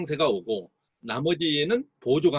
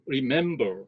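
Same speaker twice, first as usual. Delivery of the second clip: remember very slowly, MEM stressed and the syllables around it weak; slow rhythm demo; weak-strong-weak rhythm; 3 semitones lower, much slower than usual. Shown as a demonstration. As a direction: drag out remember, leaning on MEM. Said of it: "약강약의 리듬이 생기게 됩니다".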